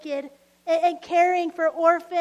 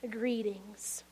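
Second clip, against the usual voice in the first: soft, lower-pitched whispered greeting; 6 semitones lower, 9 dB quieter than usual. Pretend. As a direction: breathe the word like a secret. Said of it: "and he will say".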